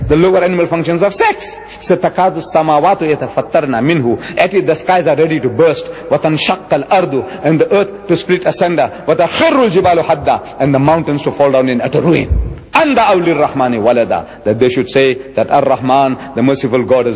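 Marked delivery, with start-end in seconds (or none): 1.8-4.4 quick fluent Arabic recitation of the verse; تلاوة سريعة; Quran recitation. Shown as a demonstration. 5.9-7.5 quick fluent Arabic recitation of the verse; تلاوة سريعة; Quran recitation. Shown as a demonstration. 9.1-10.6 quick fluent Arabic recitation of the verse; تلاوة سريعة; Quran recitation. Shown as a demonstration. 12.7-14.4 quick fluent Arabic recitation of the verse; تلاوة سريعة; Quran recitation. Shown as a demonstration.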